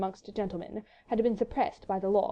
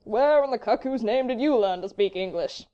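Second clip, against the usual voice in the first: drawling, foppish amazement; undisguised wonderment; 2 semitones higher, 4 dB louder than usual. A narrator's reading. Englishman amazed at Frenchman's English, drawling wonderment. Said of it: "with undisguised wonderment".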